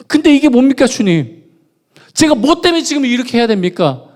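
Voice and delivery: loud, high indignant challenge; demanding of God. Retold or imitated. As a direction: hurl the question at heaven. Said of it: "막 따졌어요".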